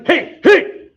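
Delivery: high, eager call to get someone's attention; eager hey calling. Shown as a demonstration. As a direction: sing out a keen hey, hey while moving in. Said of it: "So if I'm moving in on somebody".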